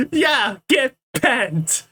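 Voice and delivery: put-on slow, drawn-out English-accented retort. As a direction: brush them off in an English accent. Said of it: "do my English accent".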